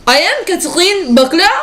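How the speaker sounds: anchor intro in a hammed-up French accent, rising at the end; mock French accent. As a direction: lean into a fake French accent on your name. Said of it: "who I am not speaking in a French accent".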